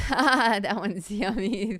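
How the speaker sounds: slow words through laughter; laughing. Real, not acted. Laughing while praising the dragon.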